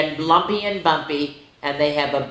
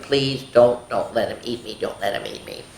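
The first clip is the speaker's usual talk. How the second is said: mock pleading prayer; 3 semitones lower than usual. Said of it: "he prays like".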